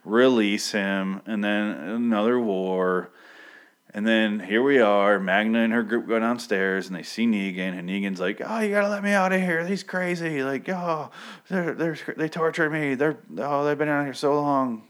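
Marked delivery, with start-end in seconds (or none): 0.0-3.1 weary groan. Retold or imitated. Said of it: "I go". 8.4-14.8 high, fast pleading whine; mock a captive begging to be let out; exaggerated desperate prisoner voice; whiny prisoner.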